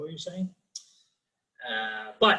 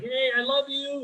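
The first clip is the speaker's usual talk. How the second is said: tender; 11 semitones higher than usual. Retold or imitated. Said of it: "I was like".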